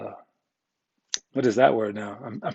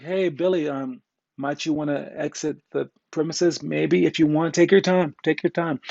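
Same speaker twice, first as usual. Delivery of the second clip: mock polite; 3 semitones higher than usual. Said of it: "nice to you and be like".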